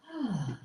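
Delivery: soft breathy sigh out through an open mouth. Shown as a demonstration. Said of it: "with a sigh".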